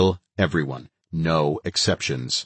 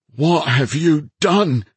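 high, loud terrified cry; whispered fear; 10 semitones higher, 6 dB louder, slower than usual. A narrator's reading. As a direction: panic rising in the voice. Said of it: "in a terrified whisper".

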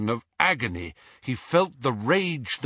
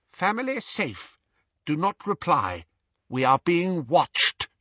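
higher, grave fatherly message; Mr Weasley's voice; 8 semitones higher than usual. A narrator's reading. Patronus speaks Mr Weasley's voice.

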